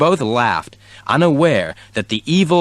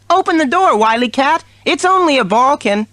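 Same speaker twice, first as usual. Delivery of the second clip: kitten voice; 3 dB louder than usual. A narrator's reading. Kitten voice in story.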